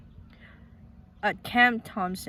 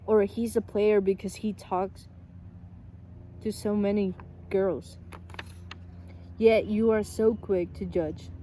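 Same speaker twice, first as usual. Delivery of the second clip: louder, earnest reading of a printed quote; reading a quote aloud; 4 dB louder than usual. Acted. Vlogger reading Cam Thompson's post to Filipino friends, earnest and louder. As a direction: read it out like a heartfelt message to the viewers.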